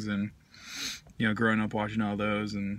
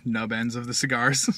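words around pipe stem; talking with pipe in mouth. Real, not acted. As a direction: lips clenched on pipe. Seen 3: Pipe stem held between lips throughout while talking, hand on bowl.

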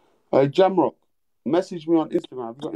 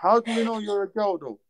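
whisper; 6 semitones higher than usual. Real, not acted. Streamer doubting caller, whispering.

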